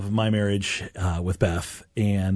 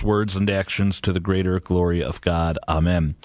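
prayer; 3 semitones lower than usual. Acted. Opening prayer.

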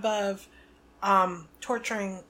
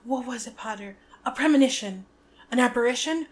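mock Trelawney mystic voice; 3 semitones higher, 5 dB louder than usual. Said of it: "She's like".

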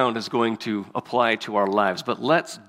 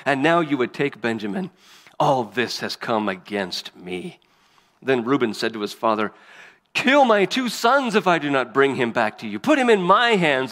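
dramatic, measured Bible reading with raised peaks; scripture reading. Acted. Preacher reads Joseph and his brothers to the congregation, emphatic scripture reading. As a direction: read the story aloud with emphatic quoted speeches.

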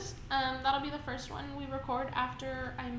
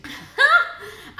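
loud laugh; 10 semitones higher, 13 dB louder than usual. Real, not acted. Laughs at co-host.

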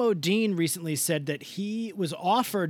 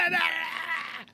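halting shout; 12 semitones higher, slower than usual. Real, not acted. Stopping co-host mid-reveal.

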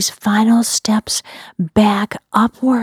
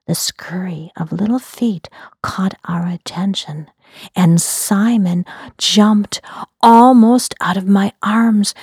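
story narration. A narrator's reading. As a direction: read it like a bedtime mystery.

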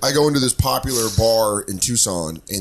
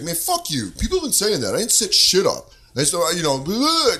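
mocking the sleazy guy; 5 semitones higher than usual. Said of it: "And he's like".

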